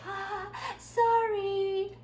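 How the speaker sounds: very high, drawn-out giggly sorry; mimicking a sheepish, smiling apology; embarrassed laughing apology. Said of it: "죄송합니다 말을 할 때". (민망해서 웃으며 높게 늘인 사과 흉내)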